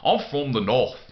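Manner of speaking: lightly imitated northern English accent; brief go at a northern English accent; mock northern English accent. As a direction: put on a Northern lilt. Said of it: "learned about the northern accents".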